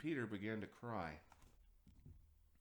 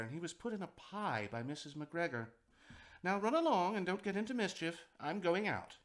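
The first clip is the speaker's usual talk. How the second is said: a lightly voiced mother rabbit, a bit higher and brighter in pitch; a gentle hint of a mother warning her children; 5 semitones higher, 4 dB louder than usual. A narrator's reading. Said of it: "Missus Rabbit one morning".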